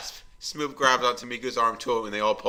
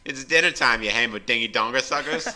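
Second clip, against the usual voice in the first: yelling; 3 semitones higher, 6 dB louder than usual. Acted. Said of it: "Nikki yelled".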